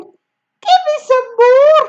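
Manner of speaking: high, loud, slow demand; greedy demand. Acted. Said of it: "she cried".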